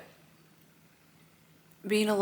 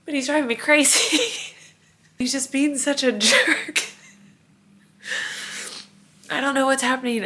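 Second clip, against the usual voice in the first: exasperated laugh; 7 semitones higher, 4 dB louder than usual. Real, not acted. Exasperated about toddler.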